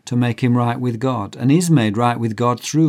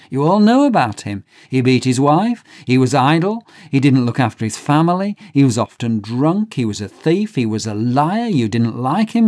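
indignant gossip; 2 semitones higher, 4 dB louder than usual. Acted. Crowd condemns the sinner.

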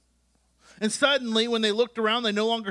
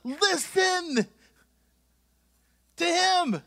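voice of God; 5 semitones higher than usual. Acted. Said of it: "they hear the words of God".

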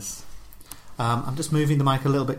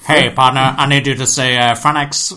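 louder mock American drawling cop; silly cop accent; 7 dB louder than usual. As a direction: play a hammed-up American traffic cop. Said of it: "in a silly accent".

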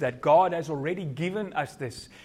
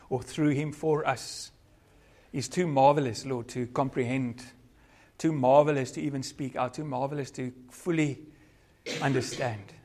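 measured, reverent prayer with long pauses; closing prayer. Real, not acted. Preacher thanking the Father for his salvation plan, measured prayer. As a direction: pray aloud, phrase by phrase.

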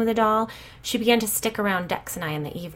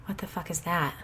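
softer, breathy scared hush; breathed; 5 dB quieter than usual. A narrator's reading. Callie hearing footsteps upstairs, breathed in fear. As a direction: breathe it out in fright. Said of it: "Callie breathed".

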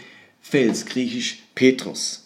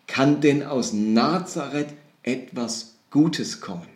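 slow, drawn-out doubtful question; sceptical question; slower than usual. Retold or imitated. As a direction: weigh each word in doubt. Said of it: "eine skeptische Reaktion". (langsam und skeptisch gefragt)

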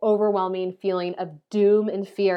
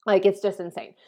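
breathy awed whisper; hushed disbelief. Real, not acted. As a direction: drop to a whisper, amazed. Awed aside after eye story.

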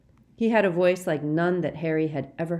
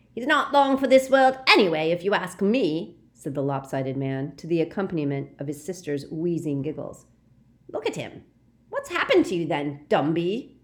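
loud sneering start; lightly voiced coarse thug; mocking; 4 dB louder than usual. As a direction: jeer at the old man. Lopsided man mocking Dumbledore.

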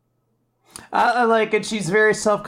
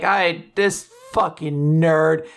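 dismissive; 4 dB louder, much slower than usual. Retold or imitated. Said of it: "I was like".

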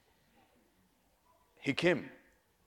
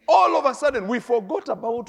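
much higher and louder, ringing out; loud burst; 6 semitones higher, 8 dB louder than usual. Real, not acted. Preacher crying out to the congregation, high and loud. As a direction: lift the whole room with it. Preacher climax of cousin story.

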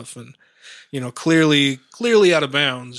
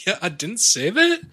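valley girl imitation; 6 semitones higher than usual. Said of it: "you talk like a valley girl".

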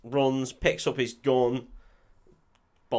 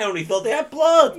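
laughing through a joke; 9 dB louder than usual. Retold or imitated.

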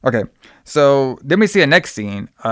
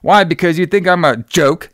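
high, indignant outburst, acted out; retold freak-out; 7 semitones higher than usual. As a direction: act out an angry confrontation at a raised pitch. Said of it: "he starts freaking out on him".

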